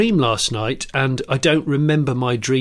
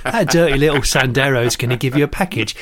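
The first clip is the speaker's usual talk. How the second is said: lightly voiced Cockney hard man giving orders; Ray Winston. Gangster sends someone for a package, mildly menacing Cockney. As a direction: issue instructions like a Cockney boss. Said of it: "Ray Winston".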